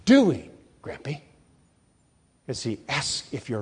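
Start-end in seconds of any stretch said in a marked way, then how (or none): 0.0-1.2 God asking. Pretend. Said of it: "says to you".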